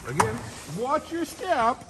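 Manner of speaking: high, slow sing-song warning; playful warning. Real, not acted. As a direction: stretch it out like a caution. Warning at the balcony.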